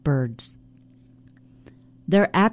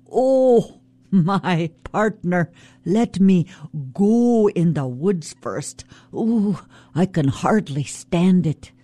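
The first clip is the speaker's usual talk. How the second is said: coaxing trickster, pitched up on the first word; sly Raven. Acted. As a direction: sweet-talk the salmon as Raven. Raven sweet-talks the salmon.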